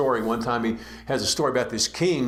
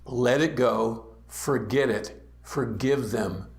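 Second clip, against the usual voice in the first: tender urging; 3 semitones lower, slower than usual. Real, not acted. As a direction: coax them gently to let go. Pastor urges forgiveness tenderly.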